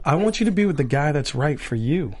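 lightly acted breakup, low and quiet; mock breakup scene. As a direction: play a soft, earnest breakup. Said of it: "it's a breakup scene".

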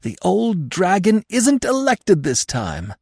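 high, slow and triumphant. A narrator's reading. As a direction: savour the victory over the old dragon. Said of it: "I added triumphantly".

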